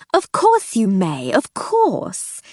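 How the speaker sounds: eager, slow relieved assent; barely hidden relief. Acted. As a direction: hide your relief badly. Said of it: "with barely concealed relief".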